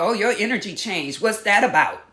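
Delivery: pointed, accusing question; mock accusing tone; accusatory. Shown as a demonstration. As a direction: confront them with it. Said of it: "That's very accusatory in tone".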